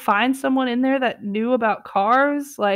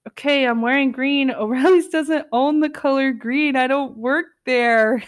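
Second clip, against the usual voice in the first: laughing denial; 2 semitones higher than usual. Retold or imitated. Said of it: "and says".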